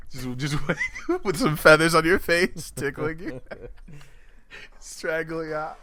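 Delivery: giggling creepy voice; half laughing while voicing; laughing through the threat. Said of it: "It's like".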